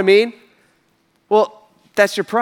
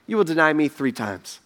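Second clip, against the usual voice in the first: solemn warning; 4 semitones lower, 5 dB quieter than usual. Retold or imitated. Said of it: "Jesus says".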